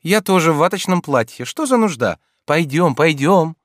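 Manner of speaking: put-on high, lively young woman voice; Ольга, звонкая девушка. A narrator's reading. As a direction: play Olga pleading playfully. Olga's voice in reading. (звонкий голос юной Ольги)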